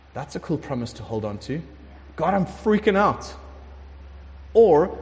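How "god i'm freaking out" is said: freaking out. Acted.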